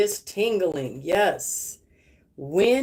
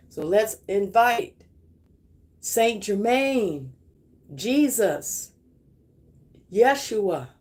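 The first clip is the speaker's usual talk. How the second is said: invocation prayer. Acted. Prays, calling in the violet flame.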